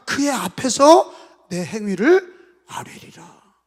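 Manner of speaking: solemn recitation. Acted.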